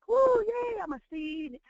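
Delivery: high squeaky cheer from a sprouting seed; sudden high excited squeal. Acted. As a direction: play a giddy little seed popping up.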